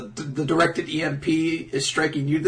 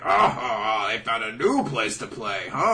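hammed-up laughing onlooker; lower, chuckling character voice; mock villain chuckle; 3 semitones lower than usual. Burgess laughing at the fight, mock chuckling voice. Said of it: "like, laughing at things".

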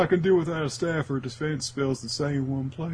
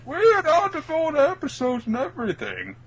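high nerdy voice; 12 semitones higher than usual. Acted. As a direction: squeak like an excited nerd. Ad-lib goon voice.

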